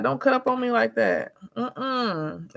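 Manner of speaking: lightly acted reprimand; retold scolding. Mother scolding son, retold.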